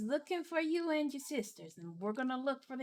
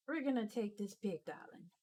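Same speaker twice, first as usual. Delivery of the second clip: smug character voice. Acted. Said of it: "puts her staff down".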